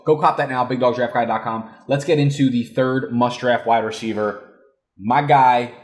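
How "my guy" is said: drawn-out hype-man reveal, building louder; big build to a long, loud name; hyped player introduction. Real, not acted. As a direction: announce the name like a ring announcer, stretching it out.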